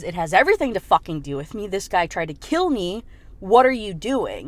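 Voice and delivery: mildly acted indignation, punched words; retold heated demand; angry confrontation. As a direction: hit the key words like an accusation.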